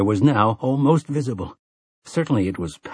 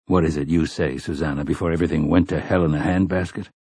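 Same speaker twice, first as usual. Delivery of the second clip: lower, measured gunslinger; an old gunslinger recalling, grave; Roland's voice; 5 semitones lower than usual. Acted. Roland explaining the vagrant dead to the others, low and grave.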